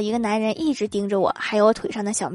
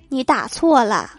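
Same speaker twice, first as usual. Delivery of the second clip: holding back tears. Acted. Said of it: "强忍着泪水告诉他".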